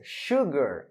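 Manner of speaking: "Sugar," with a clear sh at the start; pronunciation of sugar. Shown as a demonstration. Teacher repeating the word for students, "Sugar," with sh. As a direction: say "Sugar," as shoo-gar. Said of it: "Cuidado com essa pronúncia".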